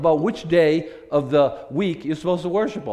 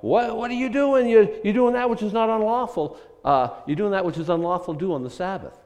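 accusing Pharisees; 5 semitones higher, 4 dB louder than usual. Retold or imitated. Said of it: "the Pharisees pop up, and they're".

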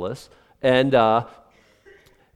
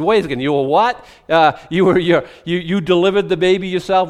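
loud, rising disbelief, stumbling over the words; can't believe what he just heard; astonished question; 3 semitones higher, 5 dB louder than usual. Acted. Luke interviewing Mary, loud astonished disbelief.

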